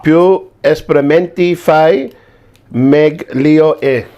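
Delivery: reads the Italian line aloud; reading foreign language. Acted. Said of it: "I'll try to read it in Italian".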